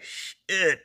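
high, squeaky inner "oh no"; mock dismayed thought. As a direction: voice the caught-out panic in a squeak.

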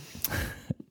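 hushed, breath-only laugh; soft chuckle. Real, not acted. Speaker after a lookalike joke about a singer, soft chuckle. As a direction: laugh very quietly to yourself.

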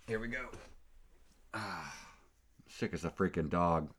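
a quick attempt at someone else's delivery; a rapper. Podcaster imitating a catchphrase, a hint of impression. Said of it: "sound like a rapper".

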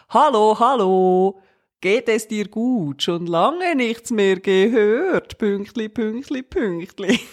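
slow, sing-song mother's message; drawn-out "Hallo, hallo" like a caring mom; imitating mom. Daughter reads out her mother's WhatsApp, slow and sing-song. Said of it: "wo dann amigs kommt".

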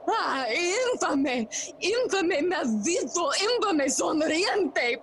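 slow, high-pitched denunciation; indignant, swooping condemnation; bitter cursing. Acted. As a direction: draw out each curse in outrage. Hamlet curses his villainous uncle.

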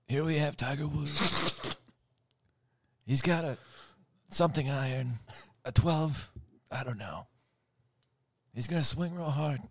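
Godfather impression. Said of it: "I'll do Godfather".

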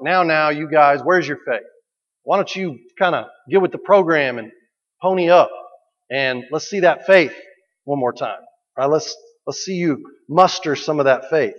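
mock-scold the disciples lightly; scolding Jesus. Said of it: "like Jesus is scolding us".

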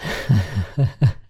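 brief chuckle after admitting a loss; short laugh. Real, not acted. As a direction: let out a little real laugh. Laughs about being down two thousand.

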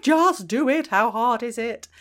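loud, high exasperated outburst. Retold or imitated. Mother venting at her teenage son's stalling, a loud exasperated outburst. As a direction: throw up your hands at a stalling teenager. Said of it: "because I'm like".

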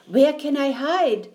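put-on frightened child. Eddie looks for a hiding place, frightened. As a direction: ask it in rising panic.

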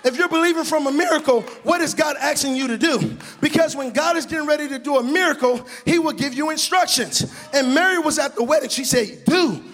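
rising, rhythmic sermon delivery; full-force preaching. Acted. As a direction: preach it out to the church.

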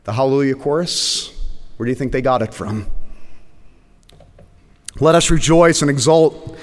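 measured, solemn scripture reading. Acted. Pastor reading the text to the congregation, solemn. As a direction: read the vision aloud with weight. Reads Revelation 19 aloud.

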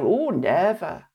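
slow, drawn-out Welsh auntie refusal. Retold or imitated. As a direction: imitate a Welsh auntie, stretched out. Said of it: "And she'll go".

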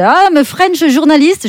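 put-on thick French accent in English, high and slow. Posing as a French journalist to the US police, hammed-up French accent. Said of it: "un bon accent français".

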